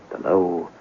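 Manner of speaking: dropping to a whisper on the hiss; hushed. Acted. Sergeant hushing as he tells of the gas, whispered. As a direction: let the words hiss away into a whisper.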